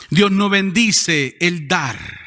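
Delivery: Dios no bendice el dar, each word spaced out slowly; slow, weighty statement of doctrine; slow and deliberate. Shown as a demonstration. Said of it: "Escuche lo que le voy a decir".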